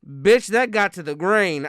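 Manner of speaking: ordinary talk, nothing marked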